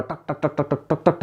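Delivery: soft repeated tak tak mimicking the tongue striking; quiet rhythmic tak sounds; tongue tapping. Shown as a demonstration. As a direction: tap it out quietly like a tongue hitting the palate. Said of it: "ऐसे करती है ना".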